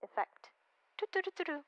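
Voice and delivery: thin, quiet telephone filter voice. Real, not acted. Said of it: "kind of telephony sort of effect".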